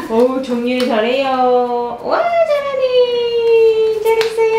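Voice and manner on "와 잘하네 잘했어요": high squeaky praise; squeaky praising a dog. Real, not acted.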